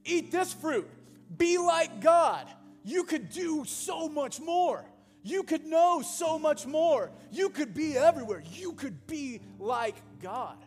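tempting serpent. Retold or imitated. Preacher voices the serpent's temptation.

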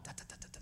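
very soft, voiceless da-da-da patter; rattled-off mock scolding. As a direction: imitate a rant with barely voiced syllables. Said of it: "he just begins to rattle off".

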